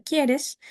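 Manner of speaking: "¿quieres?" rising upward; rising tag. Shown as a demonstration. Teacher isolating the rising question tag for students. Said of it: "se vuelve a subir".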